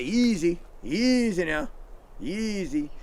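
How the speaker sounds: soothing easy. Shown as a demonstration. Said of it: "you say".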